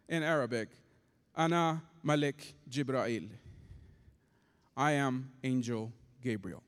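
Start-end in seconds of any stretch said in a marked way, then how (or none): 1.3-6.6 lower, measured angel announcement; lightly voiced calm angel, pitched low. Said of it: "this angel in a very calm voice".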